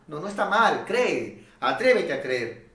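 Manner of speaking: normal talking voice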